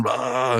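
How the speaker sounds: drawn-out fake choking noise; imitated choking. Muscle Man shaking his head, imitated choking noise. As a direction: gag on it, mock choking. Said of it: "he really is choking".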